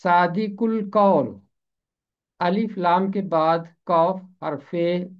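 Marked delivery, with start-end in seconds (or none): 0.0-1.4 सादिकुल कौल said slowly, the ल joined to कौल; teacher introduces सादिकुल कौल slowly; slow model word. Shown as a demonstration. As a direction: draw out सादिकुल कौल for the students. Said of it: "अगला लफ्ज़ है".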